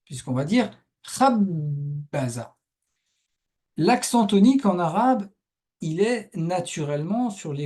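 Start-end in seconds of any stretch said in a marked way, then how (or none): 1.2-2.6 very slow "khabbaza", first syllable stressed and held; stress on KHAB. Shown as a demonstration. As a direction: lean long on the "khab" of "khabbaza". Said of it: "il va être sur cette première syllabe". (« khabbaza » lent, accent sur la première syllabe)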